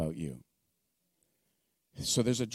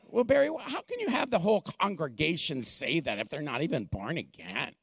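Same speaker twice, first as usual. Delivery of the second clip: a light, slightly higher whine of complaint; half-playful whine of a doubting critic; whiny voice; 5 semitones higher than usual. Retold or imitated. Pastor mocking a skeptic's objection in a light whiny voice. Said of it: "How do you like my whiny voice?".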